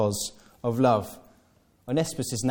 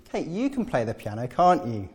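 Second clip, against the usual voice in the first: sidling flattery. Retold or imitated. Someone sidling up to Kate, coaxing voice. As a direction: sweet-talk her into it. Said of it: "sidle up to Kate and say".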